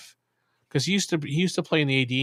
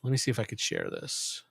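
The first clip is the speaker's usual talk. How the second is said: softer, whispered aside; 4 semitones lower, 9 dB quieter than usual. Real, not acted. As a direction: whisper to yourself. Muttering to self at screen.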